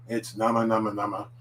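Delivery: nama with open ah vowels, NAH-mah; slow Japanese nama. Shown as a demonstration. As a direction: say nama clearly like a teacher. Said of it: "we got the same nama at the beginning".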